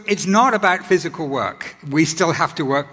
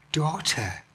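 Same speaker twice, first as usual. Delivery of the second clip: tender daughter; 8 dB quieter than usual. Shown as a demonstration. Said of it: "not just woman".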